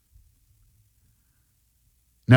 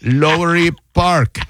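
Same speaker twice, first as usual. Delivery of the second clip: slow, higher imitation of the caller; telemarketer reading aloud; 4 semitones higher, slower than usual. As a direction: sound out an unfamiliar place name. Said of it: "you could tell he was Googling something".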